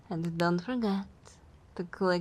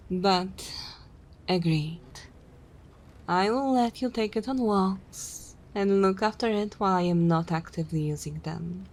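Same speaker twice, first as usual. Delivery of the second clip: vampire conceding with mild exasperation; long-suffering vampire; 5 dB louder than usual. Acted. Vampire agreeing to lend rival the thrall, grudging and condescending. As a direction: grudgingly grant the favour, with lordly condescension.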